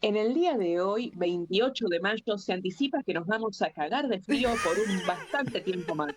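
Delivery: mock radio announcer reading the weather; weather forecast. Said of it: "Decime, decime el pronóstico del tiempo".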